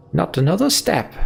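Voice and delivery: high-pitched shouted order; shouting. A narrator's reading. Ollie ordering Juno to stop, shouting. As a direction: shout it to halt her in her tracks. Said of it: "shouts Ollie".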